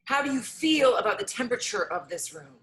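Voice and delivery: measured meditation leader, pausing between prompts; guided meditation. Acted. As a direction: invite listeners to notice, one unhurried prompt at a time.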